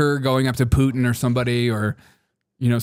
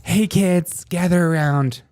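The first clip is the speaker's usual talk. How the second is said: mock Markle announcement; 2 semitones higher, 3 dB louder than usual. Parodying Markle telling her kids to thank her, loud and smug. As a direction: ham up a smug mom gathering the family.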